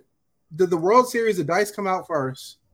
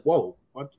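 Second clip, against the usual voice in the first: squeaky rising mock disbelief, much higher; mock surprise; 5 semitones higher, 5 dB louder, slower than usual. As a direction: play dumb with a rising, higher voice. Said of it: "And they like".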